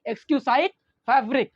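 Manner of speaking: very slow, word by word for notes; slow dictation. Shown as a demonstration. Teacher dictating slowly to the class for notes. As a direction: read it out slowly so students can write. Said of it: "क्या बोला".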